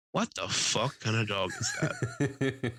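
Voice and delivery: slow, drawn-out mock exasperation; slow exasperated grumble, half laughing; retold upset. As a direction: imitate an upset old man searching for the word. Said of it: "he just visibly gets upset".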